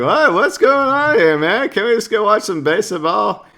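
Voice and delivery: very high, loud, bewildered put-on voice; cartoonish high-pitched confusion; confused dude. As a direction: squeak it out like a baffled guy who just wants baseball. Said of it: "this dude's like".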